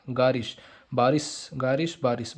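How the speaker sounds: गारिश, then बारिश, each set apart as rhymes; chant-like pairing of गारिश with बारिश; revision drill. Shown as a demonstration. Teacher showing how to revise, गारिश and बारिश as paired rhymes. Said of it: "जैसे को revise कैसे करना".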